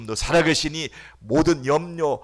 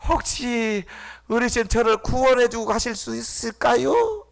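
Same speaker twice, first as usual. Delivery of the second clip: mock polite plea; 9 semitones higher than usual. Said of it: "이런 사람이 있어요?".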